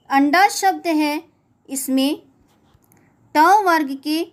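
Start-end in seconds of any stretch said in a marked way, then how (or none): 0.1-0.5 अंडा said with a retroflex ण before ड; clear pronunciation. Shown as a demonstration. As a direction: say अंडा showing the ण sound. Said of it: "पांचवें वर्ण ण की ध्वनि आ रही है". (अंडा में ण की ध्वनि स्पष्ट बोलें)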